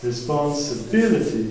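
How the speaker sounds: Responsibility with the weight on BI, just before the suffix; stress on BI. Shown as a demonstration. Teacher showing the stress rule to students, stressing BI. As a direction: lean on the BI of Responsibility. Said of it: "la même règle".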